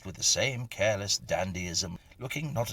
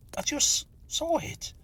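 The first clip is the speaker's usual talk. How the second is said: much higher, urgent disbelieving question; pressing again; 4 dB louder than usual. A narrator's reading. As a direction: press him hard once more. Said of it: "I said again".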